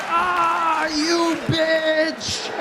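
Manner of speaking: high, loud angry curse; furious yell. Retold or imitated. Driver curses as fifty cars come at him. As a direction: scream it at the oncoming cars. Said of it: "And I was like".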